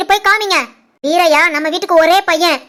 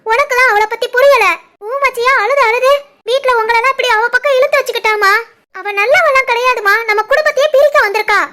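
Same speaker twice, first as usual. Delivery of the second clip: higher, insistent protest; heated accusation; 4 semitones higher than usual. Acted. Daughter accusing the bride to her mother, heated. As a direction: push back hard.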